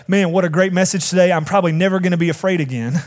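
brisk, bright-eyed mock enthusiasm; mock excited. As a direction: play an over-eager churchgoer gushing after the service. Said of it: "This may not for you be like a".

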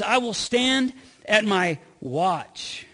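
"I will stand at my watch" drawn out slowly, word by word; slow each word of "I will stand at my watch" down; slow resolve. Retold or imitated. Habakkuk vowing to wait on God, slow and deliberate. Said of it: "He says".

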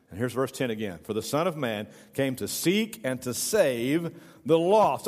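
measured Bible reading to a congregation; scripture reading. Acted. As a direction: read the passage out deliberately, line by line. Reads scripture aloud.

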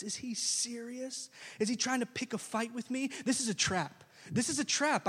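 a frightened king talking himself into a panic; panicking king. Acted. King panics over letter.

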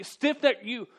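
high, loud, drawn-out "stupid"; exasperated rebuke. Retold or imitated. Stephen's rebuke voiced as a loud, high exasperated outburst. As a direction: berate them in exasperation. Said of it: "that's sort of what he's saying".

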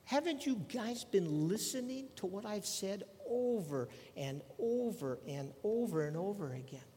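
exasperated disbelief, starting high; acted incredulous scolding, pitch easing down through the repeats; Jesus. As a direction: start high, then labour the repetition. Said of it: "But he's saying to him".

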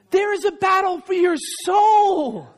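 lifted, forceful declaration; preaching emphasis. Real, not acted. Preacher warning the congregation about their souls, forceful. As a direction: drive it home to the room. Preacher stresses spiritual battle.

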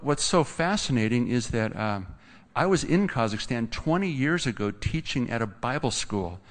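ordinary delivery

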